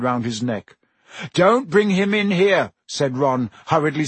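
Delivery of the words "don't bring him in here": high, loud, urgent objection; sharp, panicked warning; alarmed protest. A narrator's reading. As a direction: cry out to stop them at once. Boy alarmed at cat coming in.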